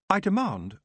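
the queen asserting herself, cut short; haughty elf demand. Acted. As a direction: Nightshade demanding of Tiffany, imperious. Nightshade starting a haughty demand.

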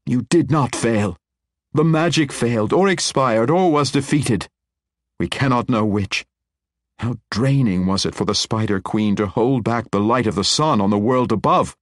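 forceful persuasion. A narrator's reading. Matron convincing the wizard he did not fail, insistent. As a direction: drive the point into him.

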